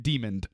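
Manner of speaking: "demoned" with a clear D closing it; teasing final D. Retold or imitated. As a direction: joke on the added D in "demoned". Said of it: "you put a D on the end of demon".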